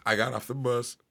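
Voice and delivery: belching between words; while sipping a drink. Real, not acted. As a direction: talk with a beer in hand. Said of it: "I'm drinking beer at the moment".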